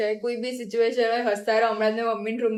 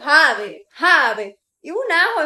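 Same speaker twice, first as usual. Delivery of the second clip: mimicking mom; 4 semitones higher, 7 dB louder than usual. Daughter mimics mother's scolding.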